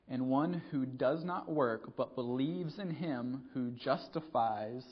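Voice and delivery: slow, measured reading of the verse; slow scripture reading. Acted. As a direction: read the passage slowly and deliberately. Reads scripture aloud.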